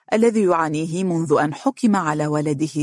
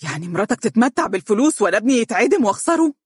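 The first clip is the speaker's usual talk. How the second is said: sudden raised, fast outcry; shouting; 5 semitones higher, faster than usual. Acted. Father suddenly shouting at the lawyer, fast outcry. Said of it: "وفجأة صاح عبد القادر".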